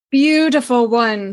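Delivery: "beautiful one" purred a touch brighter and fuller; purring. Acted. Lady purrs again over the tiger, lifted purr. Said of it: "she purred".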